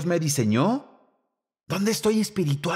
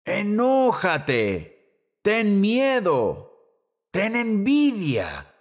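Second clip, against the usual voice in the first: slow, stretched commands; half-shouted, very slow imperatives; mock yelling; 4 semitones higher, much slower than usual. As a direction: act out a crowd calling orders, each drawn out. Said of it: "Nos gritan eso todo el día".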